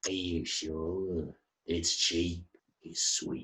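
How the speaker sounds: hoarse, scratchy, low voice. A hooded figure pressing Flynn to buy some fun, in a scratchy voice. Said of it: "just in a scratchy voice says".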